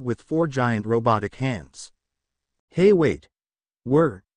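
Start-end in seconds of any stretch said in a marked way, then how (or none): 2.7-4.2 calling out. Acted. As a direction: shout after two running men. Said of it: "Goku was about to call out".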